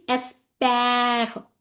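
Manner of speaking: espère with a long open "è"; teacher stretching the "pè" of espère slowly; accent grave sound. Shown as a demonstration. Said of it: "That is called accent grave. It means espère".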